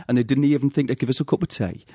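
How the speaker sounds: broad Newcastle vowels; Geordie accent. Shown as a demonstration. Nan complaining to Gavin about the doctor's, Geordie accent. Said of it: "And it goes like this".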